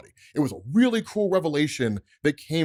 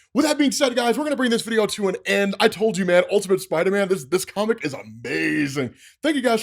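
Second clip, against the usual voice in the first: excited outro; 3 semitones higher, 4 dB louder than usual. Real, not acted. Energetic vlog outro to viewers.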